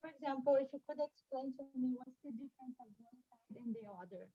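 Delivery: muffled, hand over mouth. Real, not acted. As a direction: talk through a covered mouth. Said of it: "you got muffled there again".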